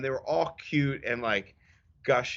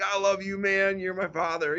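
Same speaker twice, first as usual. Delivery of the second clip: mock earnest; 6 semitones higher than usual.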